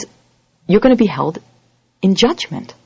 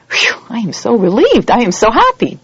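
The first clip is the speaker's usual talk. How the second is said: acted relief; 5 semitones higher, 3 dB louder than usual. Defendant relieved the judge is his dad, gushing relief. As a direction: let the relief gush out.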